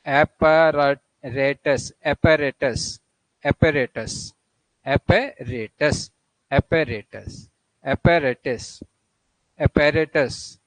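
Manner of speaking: apparatus in American English, third A like man; American English drill; American pronunciation. Shown as a demonstration. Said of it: "American English में बोला जाएगा".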